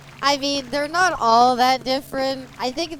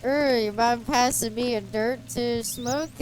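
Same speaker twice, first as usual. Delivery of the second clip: lightly hammed-up Canadian redneck accent. Streamer showing how Canadian rednecks talk, mock Canadian redneck accent. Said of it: "Canadian rednecks are like".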